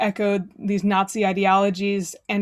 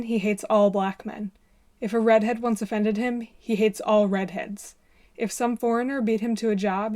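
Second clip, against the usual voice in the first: formal reading. Acted. Reads Stan Lee column aloud.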